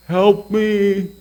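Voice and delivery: put-on high, small pleading baby voice; baby's plea. Dad voicing his startled baby son, high pleading baby voice. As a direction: squeak it out like a startled infant. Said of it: "He was saying".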